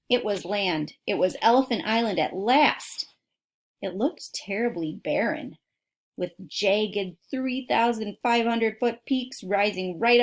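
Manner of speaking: put-on reading a book aloud to kids; steady storybook reading voice; story narration. A narrator's reading. Reads a book aloud to listeners.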